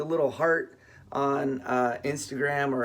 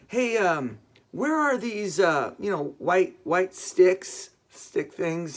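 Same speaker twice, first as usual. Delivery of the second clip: higher, fumbling for the word; hesitant asking; 3 semitones higher, slower than usual. Retold or imitated. Shopper asking the produce manager for white sticks, hesitant. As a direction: feel your way haltingly through a question.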